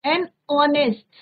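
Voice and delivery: an honest spelled out very slowly, word by word; slow model reading. Shown as a demonstration. Teacher models the phrase for the class, very slow. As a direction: draw out each sound so students can copy. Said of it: "एन आर".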